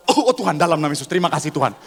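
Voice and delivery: prayer building to a loud hallelujah; mock fervent prayer. Wife thanking God as husband coughs, mock-fervent and building.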